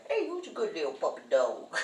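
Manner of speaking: put-on fast, sing-song baby talk to a pup; talking to a dog. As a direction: coo at the big dog like a puppy.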